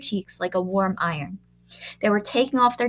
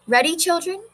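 teacher; 8 semitones higher than usual. Acted. Teacher addresses class.

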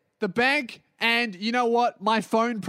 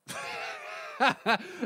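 burst of laughter; 5 dB quieter than usual. Real, not acted. Laugh alone between rant lines.

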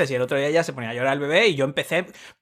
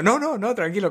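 higher, hurried-to-please reassurance; meek backing down; 4 semitones higher than usual. Acted. Caught complaining, backing down with mock politeness. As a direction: back down politely, voice raised in pitch.

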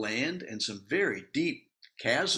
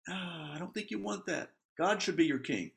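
softer, patient divine voice; God's gentle reply; 4 semitones higher, 4 dB quieter than usual. Acted. God answering Israel's demand, soft and patient. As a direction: gently talk them out of it.

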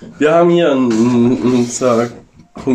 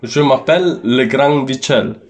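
mock French. Shown as a demonstration. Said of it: "sag nochmal".

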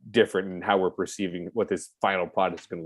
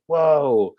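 loud, raised mock awe; imitated amazement; 6 semitones higher, 6 dB louder than usual. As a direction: play a starstruck kid's reaction. Younger pupils spotting the TV actor.

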